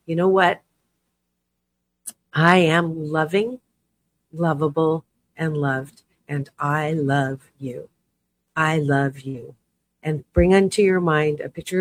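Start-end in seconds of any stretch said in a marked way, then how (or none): 0.0-9.5 gentle self-affirmation. Shown as a demonstration. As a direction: say it to yourself tenderly, taking your time. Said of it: "Put your hand on your heart and say".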